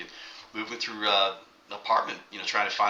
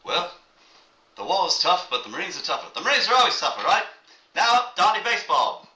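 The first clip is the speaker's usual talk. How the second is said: high, loud gruff-talking sergeant; tough Marine sergeant; 10 semitones higher, 6 dB louder than usual. Retold or imitated. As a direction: play the proud tough Marine. Sergeant answering newsreel reporter.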